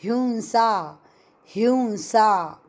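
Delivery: हिंसा said as उंसा, blending the sounds; हिंसा गलत उच्चारण; not hinsa. Shown as a demonstration. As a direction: show the wrong form हिंसा. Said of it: "हिंसा बोलना नहीं".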